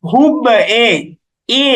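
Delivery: "হুব" followed by its e colour alone; qalqalah toward zer. Shown as a demonstration. Teacher shows which way the sound goes, e-coloured qalqalah. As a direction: bounce "হুব", then isolate the e sound. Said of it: "এই দিকে যাচ্ছে উচ্চারণটা".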